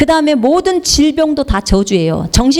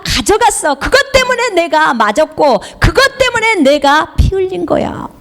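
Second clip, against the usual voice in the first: lightly voiced Lord, higher-pitched and insistent; the Lord speaking; 5 semitones higher than usual. The Lord telling the preacher what was done for them, insistent. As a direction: declare it as God, pitched up. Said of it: "주님이 저에게 알게 하신 것들은".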